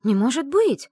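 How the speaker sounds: exclaiming. Acted. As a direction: cry out in disbelief. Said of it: "воскликнула я". (воскликнуть громко, выше обычного)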